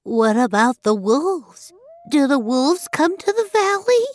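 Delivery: high, frightened little goat voice; storybook fear, pitched right up; frightened kid. A narrator's reading. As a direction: ask fearfully as a small child. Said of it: "asked in a frightened voice".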